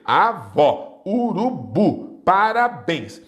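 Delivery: "avó, urubu, parabéns" with the final syllable punched; stress on last syllable. Shown as a demonstration. Teacher demonstrating oxytones, last syllable stressed. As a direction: lean hard on the end of "avó, urubu, parabéns". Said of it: "a última sílaba é a mais forte".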